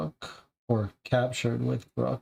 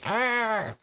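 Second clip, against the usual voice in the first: shriek; 10 semitones higher than usual. Acted. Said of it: "followed by a shriek".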